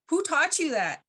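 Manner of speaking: little people's voice. Retold or imitated. Little people answering child.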